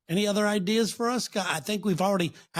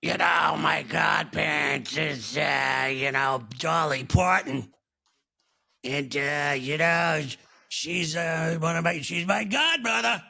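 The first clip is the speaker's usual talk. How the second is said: Impression of a pop singer. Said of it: "This is me doing a pop singer".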